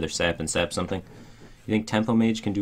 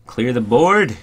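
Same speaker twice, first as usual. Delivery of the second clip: excited; 5 semitones higher, 10 dB louder, much slower than usual. Real, not acted. Excited board clear.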